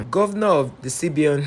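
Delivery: bursting into high laughter; can't hold back the laugh; real laughter breaking through the headline. Real, not acted. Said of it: "I don't know why I'm laughing".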